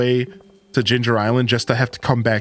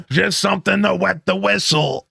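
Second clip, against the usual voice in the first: higher, slow, sly drawl; sly thirsty patron; 5 semitones higher, slower than usual. Acted. Pam hints to Gus she wants a drink, slow and sly. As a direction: drag it out like a barfly angling for a drink.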